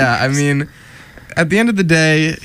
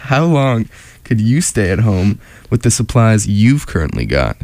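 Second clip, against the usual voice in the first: slow sexy voice. Acted. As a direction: read it slow and sultry. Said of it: "They, they're just talking slow".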